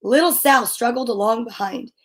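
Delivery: measured picture-book narration with pauses; reading to children. A narrator's reading. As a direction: read it aloud to little kids, phrase by phrase.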